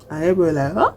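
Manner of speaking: ordinary talk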